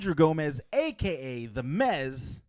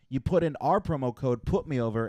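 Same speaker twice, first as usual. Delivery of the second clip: ordinary talk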